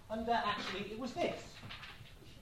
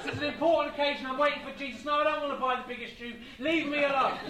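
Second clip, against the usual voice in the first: mock-irritated, raised voice; impatient brush-off; 4 semitones higher, 5 dB louder, faster than usual. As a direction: fob off a pest, getting louder. Brushing off the pestering tramp.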